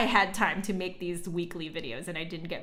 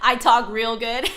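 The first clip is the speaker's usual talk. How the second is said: louder, laughing through the words, then a high laugh; laughing at herself; 4 semitones higher, 11 dB louder than usual. Real, not acted. Laughing at her own clumsy phrasing to chat, amused. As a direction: crack up at your own grammar.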